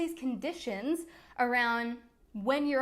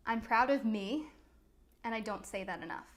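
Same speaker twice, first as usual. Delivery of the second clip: sincere affirmation; 2 semitones lower, 3 dB quieter than usual. Shown as a demonstration. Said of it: "hand over your heart and just say".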